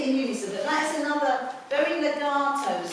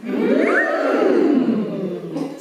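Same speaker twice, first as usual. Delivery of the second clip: surprised mm; 5 dB louder than usual. Shown as a demonstration.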